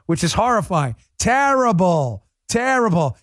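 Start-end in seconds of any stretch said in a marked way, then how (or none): 1.2-3.2 mock New York accent, higher and drawn out. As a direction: imitate a New Yorker heckling, stretching it out. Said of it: "I can't do a New York accent".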